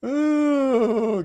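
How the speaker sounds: spluttering out a mouthful; spit take. Real, not acted. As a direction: sputter as the drink sprays out. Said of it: "I just spit my drink".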